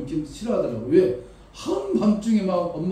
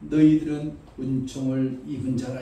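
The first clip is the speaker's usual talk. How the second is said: voice of God; 3 semitones lower than usual. Acted. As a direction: speak as God, calm and weighty. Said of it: "그런 통곡을 했을 때".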